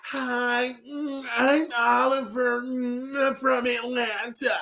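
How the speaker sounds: high whiny mocking Oliver voice; cartoon character voice. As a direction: whimper it like a silly cartoon. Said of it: "Bravo Con over there being stupid".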